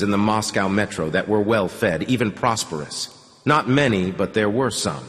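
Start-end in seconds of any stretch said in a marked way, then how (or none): none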